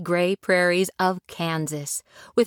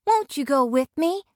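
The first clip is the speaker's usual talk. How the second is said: pleading; 7 semitones higher than usual. Acted. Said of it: "pleaded Dorothy".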